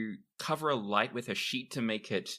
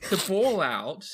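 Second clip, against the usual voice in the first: in-character objection; 11 semitones higher, 9 dB louder than usual. Acted. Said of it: "He says".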